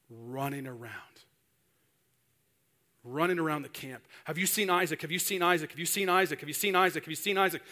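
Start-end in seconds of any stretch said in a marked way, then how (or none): 4.2-7.6 frantic searching. Acted. Frantic mother searching the camp.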